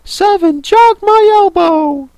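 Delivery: high, loud sulky excuse. Acted. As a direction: pout it out, blaming another. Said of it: "said Five in a sulky tone".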